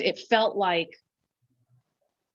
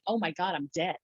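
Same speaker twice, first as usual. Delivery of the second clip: quiet; 6 dB quieter than usual. Retold or imitated. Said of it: "I remember saying".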